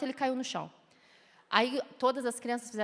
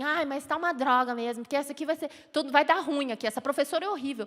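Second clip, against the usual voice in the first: complaining parent; 2 semitones higher, 4 dB louder than usual. Retold or imitated. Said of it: "Que em vez de falar assim".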